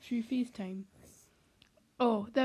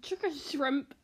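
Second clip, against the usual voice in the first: put-on Australian accent; lively mock-Australian accent; Australian accent attempt; 3 semitones higher, slower than usual. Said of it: "let's do Australian".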